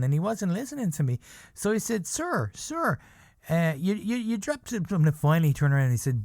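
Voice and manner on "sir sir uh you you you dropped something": calling out. Retold or imitated. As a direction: shout after him to get his attention. Friend chasing celebrity calling.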